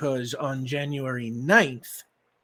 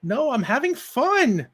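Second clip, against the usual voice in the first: put-on high, louder little girl protesting; a seven-year-old who wants to keep playing; pitched-up child's whine, having fun; 13 semitones higher, 9 dB louder than usual. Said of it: "the girl says".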